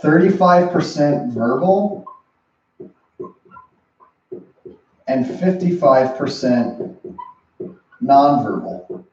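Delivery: slow, deliberate spelling out of the numbers; slow emphasis. Shown as a demonstration. Coach laying out the numbers for viewers, slow and emphatic. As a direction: give each figure its own weight, slowly.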